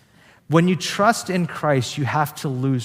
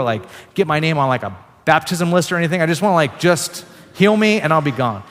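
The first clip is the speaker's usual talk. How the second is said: demanding; 3 semitones higher, 4 dB louder, faster than usual. Pretend. Woman wanting a drive-by healing, pushy and impatient. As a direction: rattle off what you want, no strings attached.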